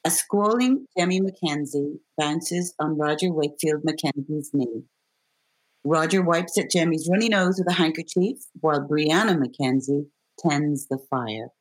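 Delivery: measured read of stage directions; calm stage-direction read; script stage directions. Acted. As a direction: set the scene like a script reader.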